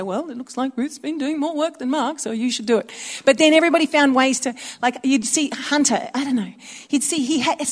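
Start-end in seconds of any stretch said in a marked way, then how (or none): 0.0-2.9 imitating dad. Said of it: "So Dad could say".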